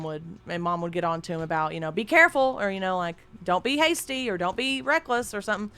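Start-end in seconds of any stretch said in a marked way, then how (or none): 1.9-2.6 nagging mother. Retold or imitated. 3.4-4.3 nagging mother. Retold or imitated. 4.4-5.3 nagging mother. Retold or imitated.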